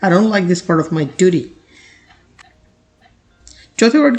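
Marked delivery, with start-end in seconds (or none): 0.0-1.4 slow, careful example sentence read for learners; measured classroom reading of a model sentence. Shown as a demonstration. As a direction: read each word slowly and clearly. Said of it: "sentence की तरफ देखिए".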